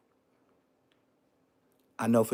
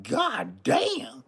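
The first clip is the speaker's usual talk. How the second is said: put-on stunned kid. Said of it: "I was like".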